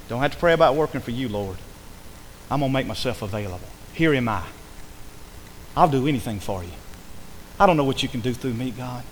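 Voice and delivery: low, hushed surrender to God; earnest prayer. Acted. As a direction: offer yourself softly to the Lord.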